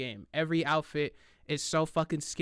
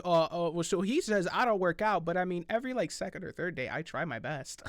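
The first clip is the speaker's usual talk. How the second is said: mocking whiny voice; 3 semitones higher than usual. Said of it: "I like how he says".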